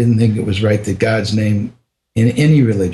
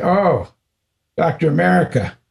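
teasing guru; 6 semitones higher than usual. Retold or imitated. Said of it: "he started teasing me".

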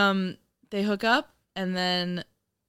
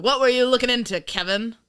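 suspicious; 6 semitones higher, 5 dB louder than usual. Pretend. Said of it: "And be like".

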